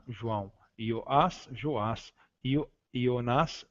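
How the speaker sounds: Ioás and Ionás slow, on an I sound; Greek against Portuguese. Shown as a demonstration. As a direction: set Ioás, Ionás apart from João and Joás, slowly. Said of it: "Então, Jesus". (contraste entre João e Ioás, devagar)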